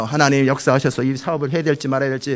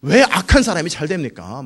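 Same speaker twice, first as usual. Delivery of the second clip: acted challenge, pitched up at the start; confronting; 4 dB louder, slower than usual. Habakkuk questioning God about evil people, confronting. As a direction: press God for an answer. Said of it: "막 따지는 거예요".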